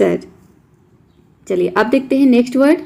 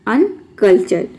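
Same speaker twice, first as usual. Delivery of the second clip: slow demo word; much slower than usual. Shown as a demonstration. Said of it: "ये हो जाएगा अनकल्चर।".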